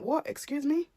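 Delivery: sharp high rising Excuse me, incredulous; as if you can't believe what you heard; confused disbelief. Shown as a demonstration. Shopper retelling her shock at the checkout worker, incredulous high rise. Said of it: "Exactly how I am".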